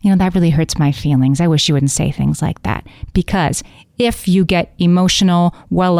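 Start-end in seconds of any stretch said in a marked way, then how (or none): 0.0-2.9 even, unemotional statement of hurt; calm and detached. Shown as a demonstration. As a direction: say it without any heat. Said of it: "you can say it like that, with that much detachment".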